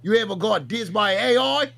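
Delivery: put-on rough Australian accent for the bit; put-on Aussie accent. Yo Mama calling out Buff Weeb in a put-on Aussie accent. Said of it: "Why are you Australian?".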